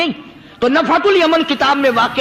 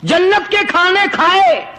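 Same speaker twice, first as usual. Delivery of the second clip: higher pitched, reproachful reply; dog's retort; 4 semitones higher than usual. Acted. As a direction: turn the tables in a higher voice. Dog answers the saint back. (ولی کو جواب دیتا کتا، اونچی طنزیہ آواز میں)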